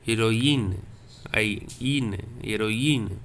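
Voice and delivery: "Heroine" said as e-ro-in, i sounded separately; teaching pronunciation. Shown as a demonstration. Teacher sounding out the trema word for students. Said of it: "same sound which you give in English".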